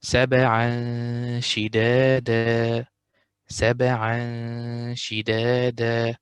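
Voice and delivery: سبعا شدادا with a hidden nasal tanween; ikhfa demo. Shown as a demonstration. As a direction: let the tanween hide into the sheen. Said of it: "so we do ikhfa".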